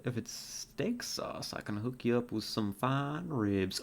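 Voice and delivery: put-on a light, easygoing cowboy accent. Marshall offering fine ribs, in a light cowboy accent. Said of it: "your cowboy accent".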